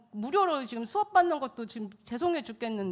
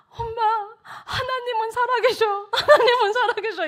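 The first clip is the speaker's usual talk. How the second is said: imitating an overwhelmed son, high and loud; high, crying proclamation in a boy's voice; tearful exclaiming; 12 semitones higher, 7 dB louder than usual. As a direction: wail it to mum, moved to tears. Son's overwhelmed call, tearful.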